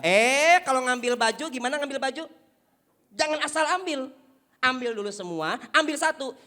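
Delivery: loud scolding wife's nagging; wife scolding husband over a wet towel. Acted. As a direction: scold him about towels and socks. Wife scolding about clothes.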